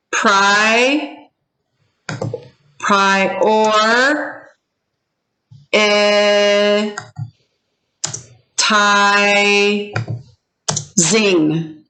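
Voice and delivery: each syllable held alone, long pauses between; broken into syllables. Shown as a demonstration. Teacher breaks a word up for students, syllable by syllable. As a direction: dictate "pri, or, eh, ti, zing" piece by piece. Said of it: "break this up into syllables".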